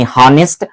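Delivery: हॉनेस्ट with an audible breathed H; sounded H. Shown as a demonstration. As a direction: let air out directly to begin हॉनेस्ट. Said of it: "हवा यहां से direct निकल रही".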